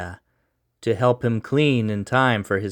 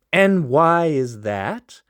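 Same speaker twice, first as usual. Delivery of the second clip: defiant sneer; 5 semitones higher, slower than usual. Acted. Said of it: "defiant sneer".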